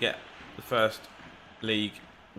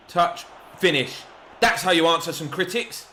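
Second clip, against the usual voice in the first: loud, higher burst of goal joy; celebrating a goal out loud; excited; 4 semitones higher, 5 dB louder than usual. Real, not acted. Gamer celebrating his striker's goal, excited.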